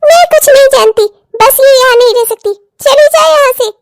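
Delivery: heated order to get out; angry refusal. Acted. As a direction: cut off all argument and throw them out. Mother-in-law orders her out.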